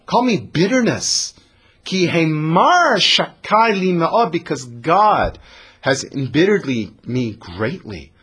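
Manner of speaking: sharp, bitter. Acted. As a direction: spit out her new name bitterly. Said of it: "Naomi is a little sharp".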